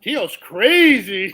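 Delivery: slow, laughing through it. Retold or imitated. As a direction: chuckle out the verdict. Irad laughing about uncle.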